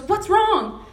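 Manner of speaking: lightly acted alarm on the phone; retold worry. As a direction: imitate an anxious phone caller. Worried mother-in-law on phone.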